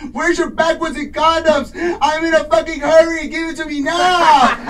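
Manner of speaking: frantic shout at the store clerks; screaming. Retold or imitated. Man in a hurry shouting at Rite Aid staff, loud. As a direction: yell it, desperate and rushed. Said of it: "I'm screaming at the top of my lungs".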